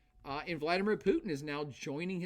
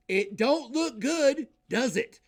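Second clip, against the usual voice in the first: higher, louder, slowed and drawn out; emphatic rhetorical jab; 7 semitones higher, 8 dB louder, slower than usual. Real, not acted. Lecturer jabbing at how America looks to the world, emphatic and slow. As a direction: lean hard into the irony.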